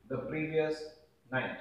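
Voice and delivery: the previous, a long pause, then night, each part set apart; slow dictation. Shown as a demonstration. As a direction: dictate "the previous night" slowly in chunks for note-taking. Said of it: "last night का हो जाएगा the previous night".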